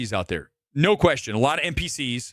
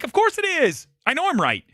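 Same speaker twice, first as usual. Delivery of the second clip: smug retort; 12 semitones higher than usual. Retold or imitated. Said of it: "I'm like".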